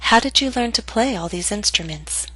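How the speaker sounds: "How did you learn to play all these instruments?" falling to the end; falling intonation. Shown as a demonstration. Teacher models question to repeat, falling intonation. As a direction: let the pitch drop on "instruments". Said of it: "practice intonation patterns and questions".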